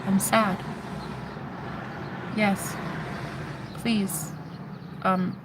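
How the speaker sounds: soft, helpless pleading; small voice, asking for help. Retold or imitated. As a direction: plead quietly in short, halting bursts. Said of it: "from a helpless state".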